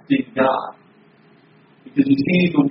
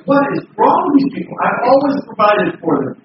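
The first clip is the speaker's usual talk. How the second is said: higher, exasperated God; mock exasperated God; 6 semitones higher than usual. God fed up with his people, exasperated. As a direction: throw up your hands as God.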